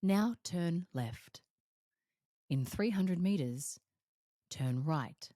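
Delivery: slow, even, machine-like navigation voice; Siri voice. Retold or imitated. Imitating Siri giving directions, slow and even. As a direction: speak like a sat-nav giving directions. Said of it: "Just like that".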